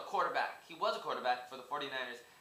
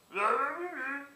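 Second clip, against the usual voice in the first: squeaky laugh; 10 semitones higher, 4 dB louder than usual. Acted. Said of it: "but he's like".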